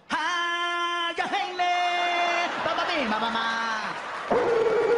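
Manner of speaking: high, nonsense growling babble; a high mock animal gibberish; mock mama lion babble. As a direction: babble like a charging mother beast.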